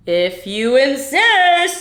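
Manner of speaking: slow, heavy reply; slow gorilla. Acted. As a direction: take your time like a big ape. Gorilla answers.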